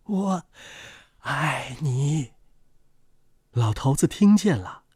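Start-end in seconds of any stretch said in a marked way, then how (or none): 0.0-2.3 soft, gentle near-murmur; softly. A narrator's reading. Words fly to old man's ear, said softly. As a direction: say it gently, well below full voice. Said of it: "轻轻地说".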